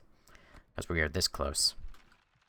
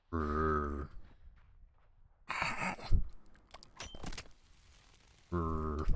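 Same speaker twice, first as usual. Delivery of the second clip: zombie groan; 4 dB quieter than usual. Retold or imitated. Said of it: "Minecraft zombie sound".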